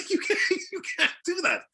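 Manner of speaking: high, laughing disbelief; laughing protest. Real, not acted. Laughing protest at rejected accent.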